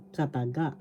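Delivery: "kataga" stressed on the final ga; stress on third syllable. Shown as a demonstration. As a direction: say "kataga" with the weight on its last syllable, ga. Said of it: "is in the third syllable".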